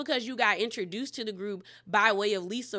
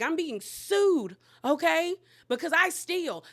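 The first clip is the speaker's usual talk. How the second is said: hammed-up woeful victim tale, pitched up; mock tearful confession; 4 semitones higher than usual. Fan re-enacting a robbery to embarrass the table, mock tearful. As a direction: play a put-on pity story to needle them. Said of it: "I would have started crying".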